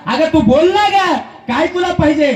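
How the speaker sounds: high, coaxing husband's plea. Acted. Husband coaxing his wife to say what she wants, high and pleading. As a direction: raise the voice to coax her.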